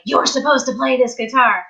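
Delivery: understated, even retold statement; matter-of-fact. Repairman telling her about the guitar, matter-of-fact. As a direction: state it as simple fact, lightly imitated. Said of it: "very matter-of-factly".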